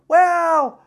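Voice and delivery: sudden loud, high grumpy burst; curmudgeonly outburst. Real, not acted. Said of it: "I get a little curmudgeon-y".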